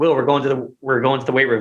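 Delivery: ordinary talk, nothing marked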